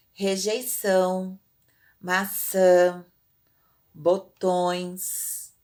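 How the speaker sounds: "rejeição, maçã, botões" with held nasal endings; slow word list, lingering on each nasal ending; nasal vowels. Shown as a demonstration. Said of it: "Pra indicar nasalidade".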